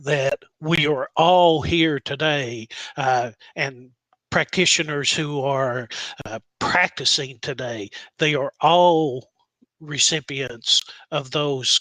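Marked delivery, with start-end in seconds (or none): 0.0-2.6 "all" hit with a falling tune; stress on all. Real, not acted. Reminding colleagues what they received, stress on "all". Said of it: "I would emphas-, emphasize". 8.2-9.3 "all" said louder with a fall; stress on all. Real, not acted. Insisting every practitioner benefited, stress on "all". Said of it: "I would emphas-, emphasize".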